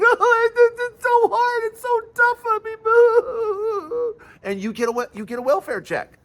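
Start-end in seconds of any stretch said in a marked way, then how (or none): 0.0-2.7 high, whiny mock complaint; mock whining farmer. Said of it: "cry like a little bitch". 2.8-4.1 shrieking high laugh. Real, not acted. Laughing at own impression.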